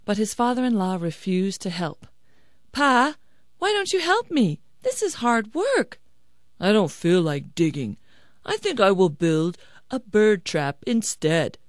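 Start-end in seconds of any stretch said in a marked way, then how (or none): 2.7-6.0 high, pleading whine; complaining son-in-law. Acted. Son-in-law whines for help digging. 6.6-11.6 lightly voiced older relative refusing; a hint of a stubborn father-in-law; unwilling father-in-law. Father-in-law declines to help.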